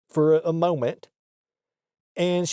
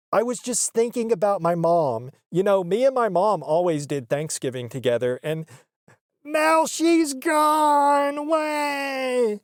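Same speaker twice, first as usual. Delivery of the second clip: high, slow mock-weepy whine; hammed-up fake crying; mock weepy mother; mocking sob voice; 5 semitones higher than usual. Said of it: "I am mocking her".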